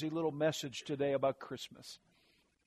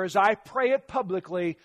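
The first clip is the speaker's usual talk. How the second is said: short phrases with pauses; 3 semitones higher than usual. Shown as a demonstration. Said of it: "just phrase by phrase".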